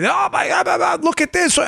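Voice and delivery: high-pitched mock panic over a discovery; hammed-up "oh my God" alarm; mock frantic. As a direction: imitate a breathless, over-alarmed tipster. Mocks a frantic email from a listener.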